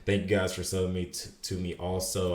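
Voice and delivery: slurred, stumbling speech; words running together; slurring words. Real, not acted. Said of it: "I'm slurring my words so much today".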